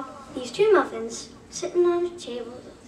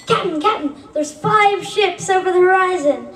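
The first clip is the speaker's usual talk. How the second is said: urgent call; 5 semitones higher than usual. Acted. Boy alerting the captain, higher urgent call.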